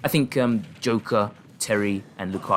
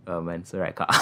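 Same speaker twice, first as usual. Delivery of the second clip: holding back laughter; 4 semitones lower than usual. Real, not acted. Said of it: "I'm trying not to laugh at that".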